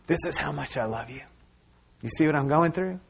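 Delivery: hushed, fading down to a whisper; God's tender words. Acted. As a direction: speak softly as God, sinking into a breath of a whisper. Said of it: "picture of God saying".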